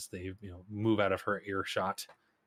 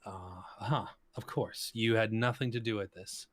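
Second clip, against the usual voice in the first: sarcastic; 2 semitones higher than usual. Acted. Emir mocks their denial.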